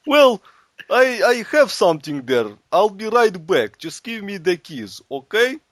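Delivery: high-pitched, insistent excuse-maker; placating husband. Acted. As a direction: talk the wife round, hammed up. Boris placating his wife, acted.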